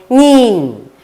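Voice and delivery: "nein" said as German nine. Shown as a demonstration. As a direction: say "nein" firm and falling. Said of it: "When they want to say no".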